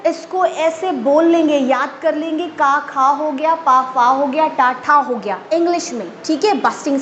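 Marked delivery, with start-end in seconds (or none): 2.6-3.5 का खा with a puff of air on खा; aspirated bursting sound. Shown as a demonstration. Teacher demonstrating का खा with a burst of breath. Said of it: "मैंने आपको बोल के भी बताया". 3.5-4.5 पा फा with a hard puff of air on फा; aspirated bursting sound. Shown as a demonstration. Teacher demonstrating पा फा with a burst of breath. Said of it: "मैंने आपको बोल के भी बताया".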